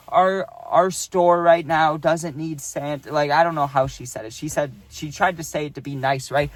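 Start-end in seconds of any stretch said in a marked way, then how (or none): 0.1-3.1 slow, measured imitation of a manager; super businesslike. Manager lets Santa go, imitated businesslike delivery. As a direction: put on a careful business tone. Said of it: "in a super business kinda way".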